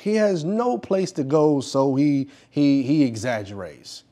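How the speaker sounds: lightly voiced, slow, deliberate denouncer; measured public condemnation, drawing out key words; disapproving critic. Acts critic denouncing Mister X.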